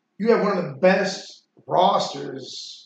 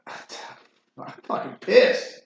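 voiceless, very slow frustrated rasp; real frustration; 2 semitones lower, much slower than usual. Real, not acted. Host forgetting the coach's saying, muttered frustration. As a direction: let it out slowly under your breath, fed up. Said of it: "I'm pissed".

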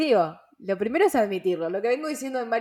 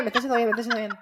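laughing; much faster than usual. Real, not acted. Laughs while repeating.

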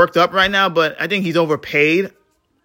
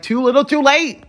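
inner thought; 9 semitones higher than usual. Retold or imitated. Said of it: "I'm thinking in my head, I'm like".

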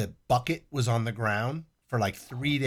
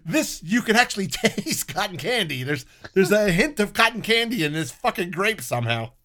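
excited; 7 semitones higher, 6 dB louder than usual. Real, not acted. Excited grape claim, laughing.

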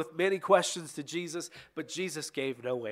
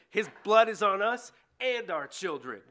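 raised, louder crowd cry; crowd's defiant answer; 5 semitones higher, 5 dB louder than usual. A narrator's reading. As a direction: call it out high and loud as the people. The crowd answers Pilate back.

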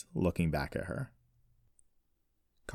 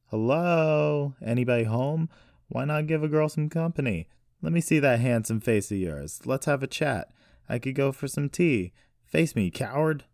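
high, loud, cheeky goading; taunting call; 8 semitones higher, 5 dB louder than usual. A narrator's reading. Captive pounding the glass at her hidden captor, taunting call.

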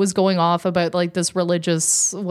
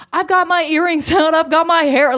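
higher-pitched mock frenzy; imitating insane girl; 7 semitones higher, 4 dB louder than usual. Retelling the vaper squaring up to fight, mock insane. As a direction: rattle it off as a worked-up brawler. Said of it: "like, she was insane".

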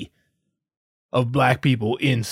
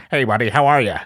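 mock white guy; 3 semitones lower, 3 dB louder, faster than usual. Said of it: "how white people talk like this".

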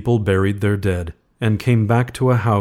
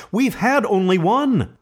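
eager; 13 semitones higher than usual. A narrator's reading. Wife urging eagerly.

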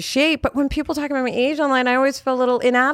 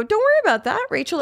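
self-reassurance; 9 semitones higher than usual. Retold or imitated. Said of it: "So now I'm trying to go".

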